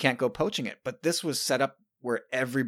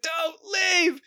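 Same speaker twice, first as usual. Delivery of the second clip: "Don't leave!" pitched much higher but only a little louder, whimpered; a touch of the daughter's tearful plea; softer imitated crying plea; 4 dB louder than usual. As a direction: whimper "Don't leave!" like a child fading into tears. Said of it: "she's crying".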